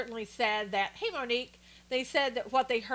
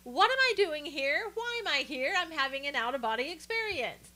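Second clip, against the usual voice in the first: higher, lost and bewildered parody; mock confusion, pitched up; dazed mock; 4 semitones higher than usual. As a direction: voice him as if he has no idea why he's there. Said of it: "that kind of".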